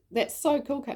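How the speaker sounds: high-pitched retold admiration; impressed praise. Mum telling daughter her vision is cool, impressed. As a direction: re-enact delighted praise for a child.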